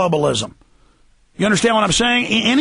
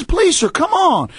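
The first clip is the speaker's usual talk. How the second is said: high, drawn-out plea; slow, high-pitched imploring shout; retold begging; 10 semitones higher, slower than usual. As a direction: imitate a man begging for mercy. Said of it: "This black guy's begging".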